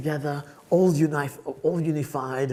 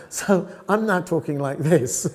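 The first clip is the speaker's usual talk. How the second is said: put-on London Cockney; Cockney accent; 5 dB louder than usual. Shown as a demonstration. Student showing how he adapted, in Cockney. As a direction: say it in broad Cockney. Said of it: "I can talk Cockney".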